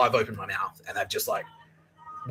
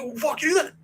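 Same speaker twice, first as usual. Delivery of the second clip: high yelled retorts, second louder; angry shouting match; 7 dB louder than usual. Retold or imitated. Student and housemaster trading insults, angry shouting. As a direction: trade insults, building.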